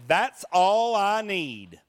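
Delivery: slow, grumbling sleepy innkeeper; mock-grumpy innkeeper, slowly grumbled. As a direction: drag it out like a man woken from sleep. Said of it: "I don't think he was grateful".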